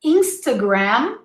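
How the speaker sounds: Instagram ending on a closed-lip M; Instagram, schwa in the middle. Shown as a demonstration. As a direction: say IN-stuh-gram, Instagram with lips shut at the end. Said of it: "Close your lips".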